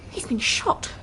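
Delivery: a whispered, stunned gasp; shocked whisper. Acted. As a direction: breathe it out in horror. Discovering the wounded man.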